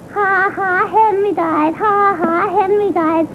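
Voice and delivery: put-on childish sing-song taunt; chanted mock laughing tease; mocking teasing. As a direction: imitate a brother's playground jeer. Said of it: "kept laughing and teasing".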